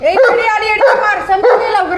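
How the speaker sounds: real urgent shouting; urgent alarm. Real, not acted. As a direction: call out sharply for quick help. Chasing off a stray dog.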